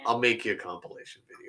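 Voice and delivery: hushed whisper. Shown as a demonstration. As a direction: whisper it conspiratorially. Restarts in a whisper.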